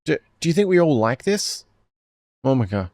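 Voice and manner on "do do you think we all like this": higher, strained pleading and snapping; frantic standoff. Acted. Girls and Sister Etsuko argue at gunpoint, strained and high. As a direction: voices cracking under the gun.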